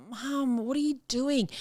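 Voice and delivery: a daughter embarrassed by her mum; shocked daughter. Retold or imitated. Daughter to her mum, mock scolding. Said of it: "Lucas's sister was like".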